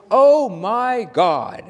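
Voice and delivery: high, drawn-out jubilant cry; loud exclamation. Shown as a demonstration. Minister showing how to exclaim at beauty, high and loud. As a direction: exclaim it slowly, as if arms are flung wide. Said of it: "exclaim in a loud voice".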